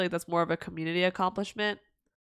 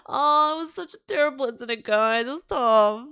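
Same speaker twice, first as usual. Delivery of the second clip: mock tragic; 4 semitones higher, 4 dB louder than usual. Mock dramatic lament.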